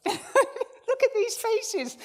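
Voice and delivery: laughing through the words. Real, not acted. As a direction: crack up while speaking. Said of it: "laughing at volunteers".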